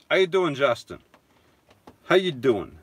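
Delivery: playful New York greeting; New York accent. Pretend. Vlogger greeting viewer Justin, New York accent. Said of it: "That's my New York accent".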